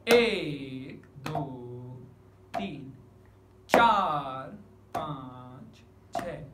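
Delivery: loud एक and चार, count linked in threes; stress on एक and चार. Shown as a demonstration. Teacher repeats the six-beat count, with loud एक and चार. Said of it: "ये लहजा आप अगर बनाते हैं".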